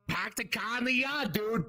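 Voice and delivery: hammed-up Boston accent, dropped R's. Shown as a demonstration. Comic showing the crowd the accent, Boston accent. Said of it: "you know the Boston accent where it's like".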